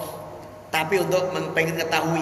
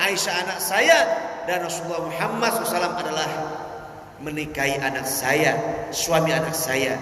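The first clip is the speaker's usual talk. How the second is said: humble reply. Acted. Abu Bakar's humble reply.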